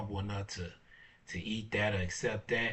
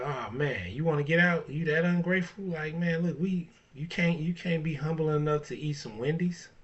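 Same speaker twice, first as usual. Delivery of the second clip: much higher and louder, mocking disbelief; incredulous rant; 9 semitones higher, 5 dB louder than usual. Telling off the ungrateful woman, high loud scoffing rant. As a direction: scoff at her for refusing Wendy's. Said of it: "I'd be like".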